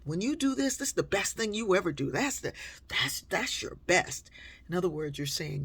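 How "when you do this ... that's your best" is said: lightly gushing mock praise; hammed-up gushing praise; flattering. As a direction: pile on the compliments. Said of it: "you go".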